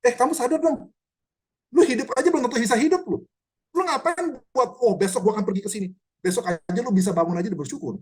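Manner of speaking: lightly voiced blunt rebuke; blunt scolding Yakobus. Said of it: "Yakobus itu bener-bener nemplak".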